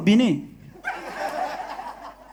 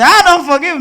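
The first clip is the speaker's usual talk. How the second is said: firm refusal; 7 semitones higher, 6 dB louder than usual. Acted. Mama refusing forgiveness.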